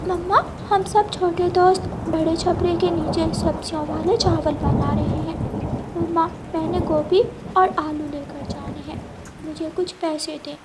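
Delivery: put-on a small boy sweetly asking for money; little boy Kuku. Little Kuku asks his mother for money, lightly childlike.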